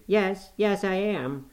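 lightly voiced weeping boy; tearful. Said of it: "The tears gushed from Linton's eyes".

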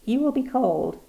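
high-pitched gentle concern; tender old husband. A narrator's reading. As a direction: coax her tenderly out of the cold. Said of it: "he said tenderly".

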